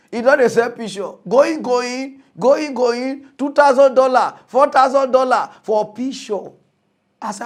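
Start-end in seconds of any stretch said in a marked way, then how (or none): 1.3-6.5 high, loud auction call; hammed-up auctioneer; mock auctioneer. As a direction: sell it off like an auctioneer.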